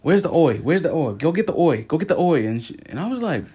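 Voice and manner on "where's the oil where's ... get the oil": insistent, higher voice with "oil" said as "oi"; imitating repeated demand. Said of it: "she just kept saying it".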